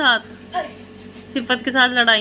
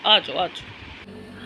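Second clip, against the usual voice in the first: slow, soft whispered coaxing; 6 semitones lower, 6 dB quieter, much slower than usual. Real, not acted. Mother whispering slowly to coax her baby into her lap.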